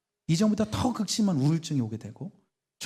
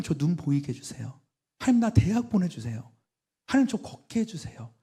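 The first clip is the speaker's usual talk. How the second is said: pleading prayer; 4 semitones higher than usual. Retold or imitated. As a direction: beg God line after line. Retelling desperate childhood prayers.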